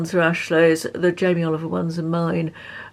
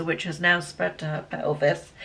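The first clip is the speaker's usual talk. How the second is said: out of breath; 2 semitones lower than usual. Real, not acted. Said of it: "I've run out of breath".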